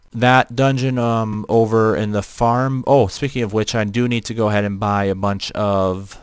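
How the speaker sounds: flat robotic voice filter. Real, not acted. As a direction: talk through a robot voice changer. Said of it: "you're questioning why my voice sounds robotic".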